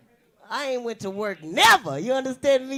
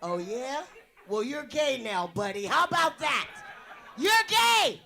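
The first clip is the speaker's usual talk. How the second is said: mock tranny voice. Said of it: "I double as a tranny".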